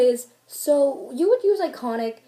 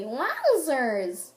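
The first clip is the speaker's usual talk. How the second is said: joke catchphrase; 3 semitones higher than usual. Retold or imitated. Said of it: "we had this joke".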